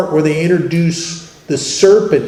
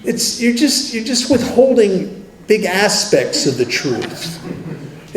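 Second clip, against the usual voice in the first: slow, persuasive higher voice of self-deceit; reasonable inner voice; 5 semitones higher, slower than usual. Retold or imitated. Addict's inner voice coaxing him to lie, slow and persuasive. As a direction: talk yourself into it, coaxing and slow. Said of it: "It, it says things like".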